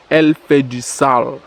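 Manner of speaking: slow, spaced-out verdict; slow emphatic repeat. Real, not acted. Vlogger repeats his verdict to his bro, slow and emphatic. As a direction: draw it out to drive it home.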